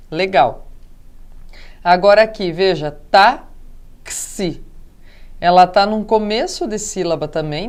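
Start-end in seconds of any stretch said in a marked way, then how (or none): 3.1-4.6 táxi split slowly as tá... xi; syllable by syllable. Shown as a demonstration. Teacher pointing out where the syllable starts, slow and split. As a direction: pause between the two syllables of táxi.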